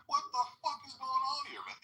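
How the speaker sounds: high, loud mock baffled guy; baffled boyfriend. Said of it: "you're like".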